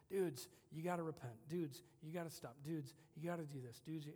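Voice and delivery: lightly voiced scolding parent, talking down; insistent mock preaching, hammering each "Dudes". Preacher talking down to his church, mildly scolding parent voice. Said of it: "sometimes I have the parent voice".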